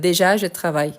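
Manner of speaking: teacher sets out the forbidden order «déjà, je travaille»; wrong word order example. Shown as a demonstration. Teacher showing students a wrong word order, firm. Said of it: "Non, je travaille déjà".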